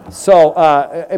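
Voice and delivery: chuckling at his own joke; laughing. Real, not acted. Preacher laughing at his own joke to the congregation. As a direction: let a laugh break through.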